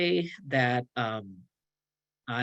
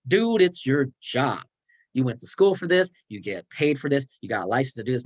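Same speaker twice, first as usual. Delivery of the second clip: blunt; 3 semitones higher than usual. Acted. A cynic lectures a clinician, blunt and scolding. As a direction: rub it in like a cynic. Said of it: "here's the more blunt answer".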